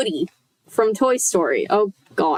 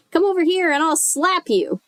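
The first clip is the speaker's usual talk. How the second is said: higher squeaky puppet voice; dummy voice; 8 semitones higher than usual. A narrator's reading. Dummy taunting Chris, high and squeaky. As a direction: threaten lightly in a high dummy voice. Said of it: "Lindy made him say".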